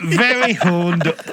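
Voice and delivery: slow, drawn-out Yorkshire vowels; Yorkshire accent. Shown as a demonstration. Reading the confession for his co-hosts, Yorkshire accent. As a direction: give it a broad, slow Yorkshire sound. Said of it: "in a Yorkshire accent for me".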